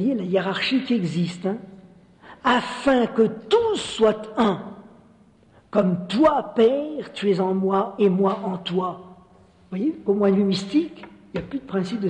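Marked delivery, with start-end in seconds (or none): 2.4-9.0 measured, emphatic scripture reading; scripture recitation. Acted. Preacher reciting Jesus's prayer to the Father, solemn and emphatic. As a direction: proclaim the prayer in spaced, weighted phrases.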